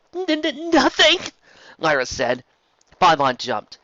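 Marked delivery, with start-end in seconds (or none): 0.1-1.2 high, halting stammer; stammering denial. Acted. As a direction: stutter out the denial in fear. Lyra stammers, scared.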